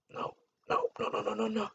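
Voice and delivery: hushed no no no, barely voiced; whispering no over and over in a dark cinema; whispered refusal. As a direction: whisper it so nobody in the theater hears.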